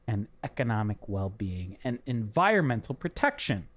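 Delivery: reading the label slowly aloud. Shown as a demonstration. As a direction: read it like the can's blurb. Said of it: "I'm gonna read a description".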